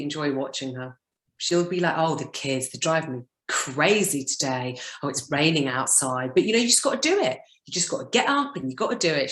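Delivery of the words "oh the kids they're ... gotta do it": lightly put-on Cockney English accent; terrible Cockney accent. Imitating a woman's rambling videos, in a rough Cockney accent. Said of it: "That's my terrible Cockney English accent".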